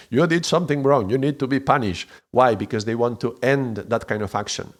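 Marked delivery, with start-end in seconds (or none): 0.1-2.1 moral scolder. Acted. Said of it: "morality standpoint supposedly higher".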